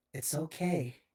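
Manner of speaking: lightly acted tender reassurance; understated comfort, with patient pauses; genuine, empathetic. Aunt reassures her guarded nephew, genuine and gently empathetic. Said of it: "she just genuinely tells you".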